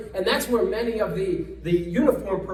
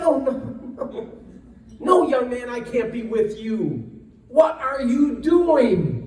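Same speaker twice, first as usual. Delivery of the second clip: firm refusal; 4 semitones higher, 5 dB louder, slower than usual. Retold or imitated. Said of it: "I said".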